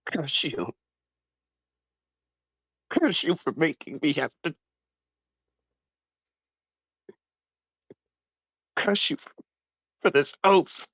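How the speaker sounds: anguished curse. Acted. Moros cursing the gods.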